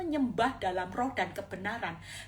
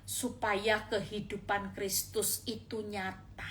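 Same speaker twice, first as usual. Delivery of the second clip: gentle voice of God; 3 semitones lower, 5 dB quieter than usual. Acted. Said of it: "Tuhan cuman bilang gini".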